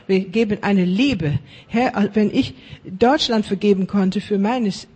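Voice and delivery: loud, driving preacher's prayer; fervent prayer. Acted. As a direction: pray it out with full force.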